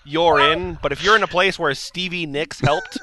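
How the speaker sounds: incredulous rant. Real, not acted.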